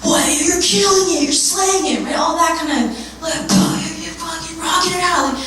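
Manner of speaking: mock hype bro. Mocking the macho hype voice of fitness bros. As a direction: pump someone up like a bro coach.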